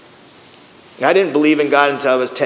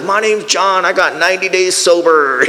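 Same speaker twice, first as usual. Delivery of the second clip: lightly voiced old man on a walker; a hint of an elderly newcomer introducing himself; old man imitation; 3 semitones higher than usual. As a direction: lightly mimic an old-timer's announcement. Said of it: "the other guy was on a walker".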